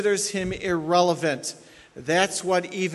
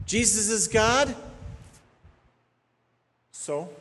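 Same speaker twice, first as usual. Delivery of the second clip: dismissive mock quote; 4 semitones higher, slower than usual. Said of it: "The basic rallying cry".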